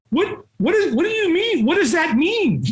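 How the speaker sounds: high, puzzled retelling of his own confusion; confused himself asking what that means; baffled. Retold or imitated. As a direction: retell the moment of total confusion. Confused retold reaction.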